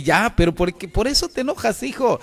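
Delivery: gentle father. Retold or imitated. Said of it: "Cuando se enoja".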